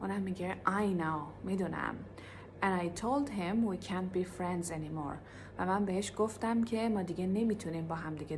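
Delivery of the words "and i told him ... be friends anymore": slow repeat-after-me. Shown as a demonstration.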